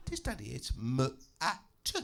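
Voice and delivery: put-on stubborn child, singing the answer up; insistent child. Daughter insisting on spelling.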